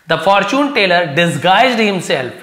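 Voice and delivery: slow, deliberate reading of the line. Shown as a demonstration. Teacher reading the story sentence to the class, slow and deliberate. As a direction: read each word out slowly.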